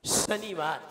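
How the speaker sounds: शनिवार with a strong hissed श; whistled श. Shown as a demonstration. Teacher asks a student to repeat, strong whistling श in शनिवार. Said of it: "सही बोलिए".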